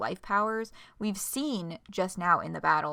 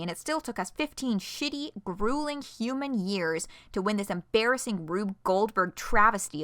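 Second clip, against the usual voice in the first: bitter angry rant; 3 dB louder than usual. Acted.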